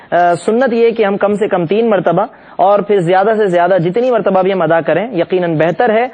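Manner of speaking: ordinary talk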